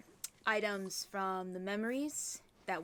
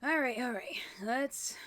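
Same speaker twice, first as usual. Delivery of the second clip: whisper; 4 semitones higher, 5 dB louder than usual. Real, not acted. Muttering to self while playing.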